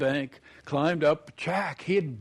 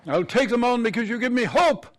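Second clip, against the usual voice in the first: hopeful parting; 6 semitones higher, 4 dB louder than usual. Acted. Edith's parting line.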